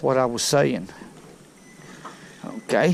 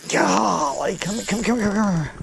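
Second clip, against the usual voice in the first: high, pleading come come come; excited urging; 6 semitones higher than usual. Real, not acted. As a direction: coax the fish in, rising excitement. Fighting a fish, urging it on.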